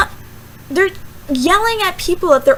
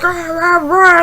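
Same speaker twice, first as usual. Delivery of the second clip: loud mimed angry growling; mock angry ranting; 5 dB louder, slower than usual. Mimicking an angry person asking you something, mock angry ranting. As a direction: imitate someone ranting angrily in nonsense syllables. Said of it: "angry and they're like".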